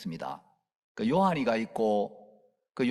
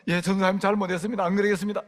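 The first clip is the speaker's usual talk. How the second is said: higher, lightly voiced apology; contrite father; 6 semitones higher, 4 dB louder, faster than usual. The father pretending to apologize to the preacher. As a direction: humbly beg pardon. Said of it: "요한이 아빠가".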